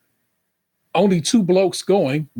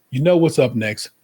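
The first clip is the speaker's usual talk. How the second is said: host hype; 3 semitones lower, faster than usual. Acted. Show segment announcement.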